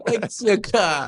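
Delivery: slow, drawn-out words; slow motion. Pretend. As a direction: stretch each word like slow motion. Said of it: "I'm talking in slow motion for him too".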